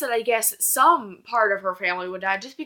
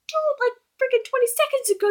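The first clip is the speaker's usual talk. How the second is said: high, loud disbelieving protest; indignant shout at the character; exasperated outburst; 6 dB louder than usual. Retold or imitated. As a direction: call him out in disbelief. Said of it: "And I'm like".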